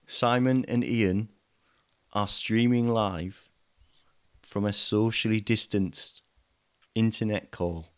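put-on slow muddled foreign accent, lightly done; Greek Welsh Pakistani accent. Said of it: "the best Greek Welsh Pakistani accent".

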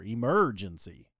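Emergency drawn out slowly with weight on the merge syllable; slow emphatic Emergency; leaning on the word. Shown as a demonstration. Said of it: "I don't wanna put so much emphasis on it".

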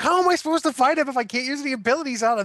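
high, whiny gamer complaint; exasperated. Retold or imitated. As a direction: complain like the game cheated you. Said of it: "I'm like".

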